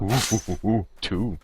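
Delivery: loud burst of gleeful oohs; excited oohs. Real, not acted. Streamer excitedly spotting resources, gleeful oohs. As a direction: squeal over finding loot. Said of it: "I get all like".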